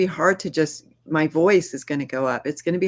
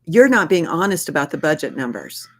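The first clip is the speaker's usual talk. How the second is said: accusing; 3 dB louder than usual. Shown as a demonstration.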